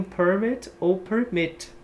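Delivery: slow PERmit then perMIT; noun then verb stress. Shown as a demonstration. Teacher contrasting both stresses of permit for students. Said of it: "Próxima".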